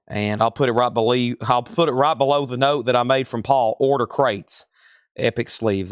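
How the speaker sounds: talking while short of breath. Real, not acted. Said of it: "Y'all have already got me out of breath tonight".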